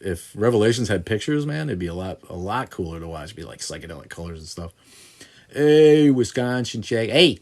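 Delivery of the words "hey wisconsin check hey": put-on high, nasally Wisconsin accent; loud, nasal Midwestern Wisconsin caricature. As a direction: put on a drawn-out, high-pitched Wisconsin twang. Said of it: "got that nasally accent".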